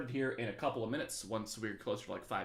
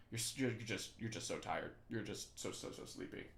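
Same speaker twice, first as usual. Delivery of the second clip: mock sleepy fade; 2 semitones lower, 7 dB quieter than usual. Teacher teasing tired students, fading to a mock sleepy whisper. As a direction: drift off mid-sentence like a worn-out student.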